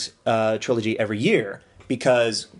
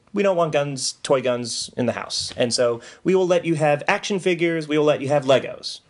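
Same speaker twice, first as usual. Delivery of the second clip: parents; 3 semitones higher than usual. Retold or imitated. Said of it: "but my parents were".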